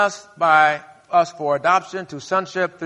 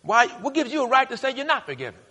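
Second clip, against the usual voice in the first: voicing God; 8 semitones higher than usual. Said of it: "God says".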